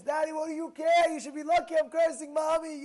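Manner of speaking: loud, high defiant shout; imitating the son. Son yelling at father that mother deserves it. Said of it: "So he says".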